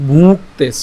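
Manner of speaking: ভুক্তেস with a clear ক-ত cluster and a short falling end; pronunciation demo. Shown as a demonstration. Teacher asking students to notice how ভুক্তেস is said. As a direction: say ভুক্তেস crisply. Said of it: "খেয়াল করুন আমরা উঁর উচ্চারণটা কি করছি?".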